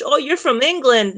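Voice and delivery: mock English accent on the quote. Imitating someone from England in an English accent. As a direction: slip into a light English accent. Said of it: "you did an English accent there when you did that".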